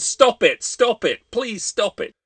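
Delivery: high, loud desperate scream, fading into a plea. Acted. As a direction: scream at it to stop. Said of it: "so I screamed".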